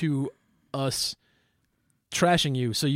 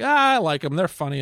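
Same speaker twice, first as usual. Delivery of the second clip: mock fan gushing; 3 semitones higher, 6 dB louder than usual. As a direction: gush like an eager fan.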